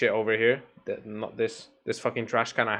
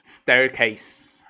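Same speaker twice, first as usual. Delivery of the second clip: Staircase said louder and clearly; clear correction; 5 dB louder than usual. Shown as a demonstration. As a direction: correct him: Staircase, stressed. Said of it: "In the circus?".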